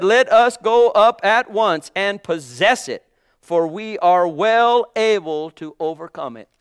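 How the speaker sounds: Caleb's confident call, slowed and strong; bold quote. Retold or imitated. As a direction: proclaim it as a sure promise. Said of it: "He said".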